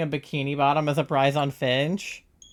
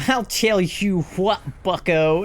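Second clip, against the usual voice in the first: drawn-out Southern, pitched up; playful Southern drawl; hammed-up Southern accent; 5 semitones higher, 4 dB louder, slower than usual. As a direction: read the spelled-out Southern accent slowly. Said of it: "is how somebody wrote it out".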